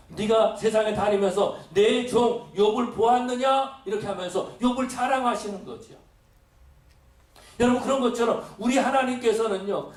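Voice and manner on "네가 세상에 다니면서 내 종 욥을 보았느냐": slow, raised proud question; boasting question. Acted. God asking Satan about Job, slow and proud. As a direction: ask it like a proud father. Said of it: "하나님께서 물어보십니다".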